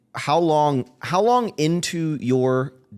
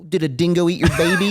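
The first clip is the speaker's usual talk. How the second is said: mock Australian accent, pitched up; 5 semitones higher than usual. Man teasing an angry Australian partner, mock Australian accent. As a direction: tease with a put-on Australian accent. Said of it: "if Morgan's really angry".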